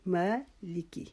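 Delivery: مالکی with ما drawn out for one alif; long ما. Shown as a demonstration. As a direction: stretch the ما in مالکی, very slow. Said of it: "علیحدہ علیحدہ دو حصوں میں".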